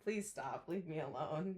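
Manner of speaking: soft little plea voiced for the dog; dog's pretend plea. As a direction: plead quietly on the pet's behalf. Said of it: "She's like".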